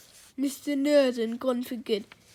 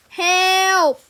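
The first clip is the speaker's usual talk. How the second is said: loud, high shout; big theatrical shout; shouted cry for help; 8 semitones higher, 13 dB louder than usual. A narrator's reading. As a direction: yell out for help in feigned panic. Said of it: "shouted Henry".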